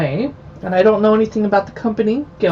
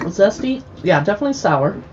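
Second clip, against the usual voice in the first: talking with a mouthful; words through a mouthful of olive; mouth full. Real, not acted. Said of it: "Sorry for talking with my mouth full".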